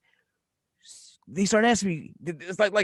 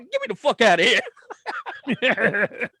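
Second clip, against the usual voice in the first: higher, drawn-out plea to escape, laughing; comic get-me-out wail; slow, hammed-up panic through laughter; mock panic; 5 semitones higher, much slower than usual. Acts out boy fleeing, laughing.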